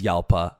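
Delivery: YALPA with a Y for the J; Spanish pronunciation. Shown as a demonstration. Host settling the car's name, Yalpa with Y sound. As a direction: say "Yalpa", opening on Y. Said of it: "it says Spanish pronunciation".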